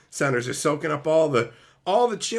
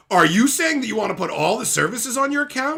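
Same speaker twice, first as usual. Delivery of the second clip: mock robot operator; 7 semitones higher, 4 dB louder than usual. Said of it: "she went".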